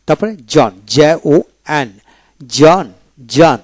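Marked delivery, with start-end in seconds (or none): 2.6-3.6 জন with no H before the N; silent H. Shown as a demonstration. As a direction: say জন cleanly, H dropped. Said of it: "এইচ উচ্চারিত হবে না".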